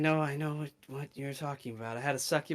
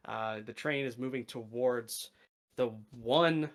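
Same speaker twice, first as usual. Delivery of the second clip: game master narration. Acted. GM describes new plane.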